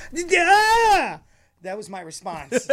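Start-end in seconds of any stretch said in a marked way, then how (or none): 0.1-1.2 high, loud exasperated yell of Yeah; sarcastic shouted yeah at the cop; mock shout. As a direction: blurt it out as a hammed-up shout. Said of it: "My response, and I'm not lying to you".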